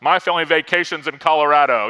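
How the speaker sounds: lightly voiced smug bragger; smug one-upper. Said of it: "Someone's like".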